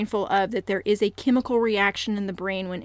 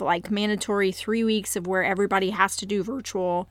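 voice cracking. Real, not acted. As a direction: voice briefly cracks mid-sentence. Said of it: "I don't know why my voice just cracked right there".

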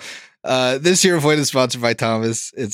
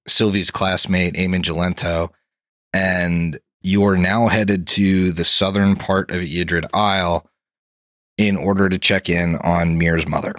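game master narration. Acted. Game master sets the scene.

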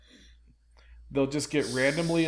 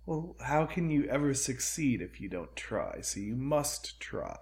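D and D villain voice; 6 dB quieter than usual. Pretend. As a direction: purr it like a polite villain. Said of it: "why are you doing a D and D villain voice".

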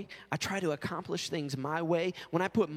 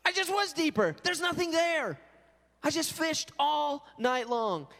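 indignant retort; 8 semitones higher than usual. Retold or imitated. Tired fisherman retorting to stranger, higher and annoyed. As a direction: snap back at a know-it-all. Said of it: "I'd be like".

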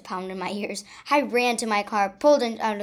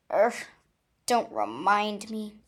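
groaning. Acted. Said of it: "I groaned".

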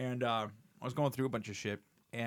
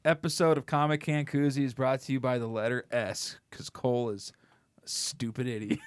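1 mock sponsor announcement. Parody Sesame Street sponsor line.

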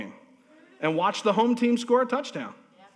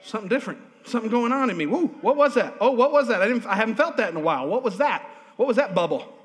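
rising, wondering delight at a new feeling; excited wonder; 3 semitones higher, 3 dB louder, faster than usual. Retold or imitated. Preacher voicing a listener feeling joy, with excited wonder. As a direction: marvel at joy bubbling up inside. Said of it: "and you go".

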